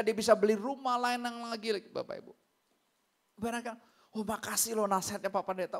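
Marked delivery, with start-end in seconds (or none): 4.1-5.8 tag. Retold or imitated. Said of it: "sopan banget".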